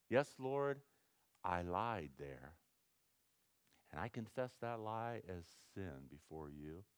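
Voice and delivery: soft, low, humble confession to the Lord; quiet humble prayer. Shown as a demonstration. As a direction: pray it softly, owning the sin. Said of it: "See, that's, that's confession".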